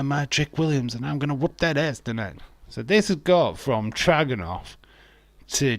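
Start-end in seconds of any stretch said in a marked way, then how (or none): 0.0-2.4 raised, quick mock promo voice; hammed-up wrestler promo, pitched up; imitating a wrestler's boast. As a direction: play the cocky wrestler, lightly. Mimics wrestler's boast in first person.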